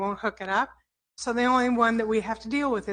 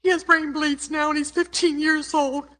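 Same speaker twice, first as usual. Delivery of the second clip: raised, strained voice holding back tears; upset, near tears; 5 semitones higher than usual. Real, not acted. Grandmother telling the council about her hurt grandson, strained and tearful. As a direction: still choked up, pressing on. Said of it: "I'm just so emotional about this".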